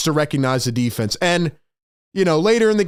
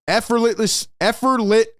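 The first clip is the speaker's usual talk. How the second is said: excited, higher-pitched stumble over a word; tongue-tied with excitement; 4 semitones higher than usual. Real, not acted. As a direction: trip over "effortlessly" and keep retrying, slowing on the last go. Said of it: "I'm sorry, I can't even talk".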